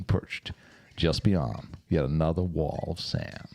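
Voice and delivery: lightly put-on American golf announcer; mild mock American broadcast read. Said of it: "my golf announcer's voice?".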